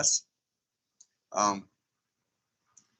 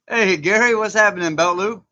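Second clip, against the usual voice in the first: excited greeting; 9 semitones higher, 7 dB louder than usual. Real, not acted. Greeting viewers in live chat.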